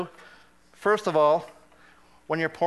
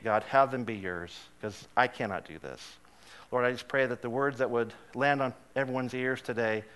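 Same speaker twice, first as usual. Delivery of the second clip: earnest prayer, sinking lower and softer; 5 semitones lower, 4 dB quieter than usual. Real, not acted. Pastor thanking God before the message, earnest prayer. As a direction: pray conversationally, easing down from the storytelling.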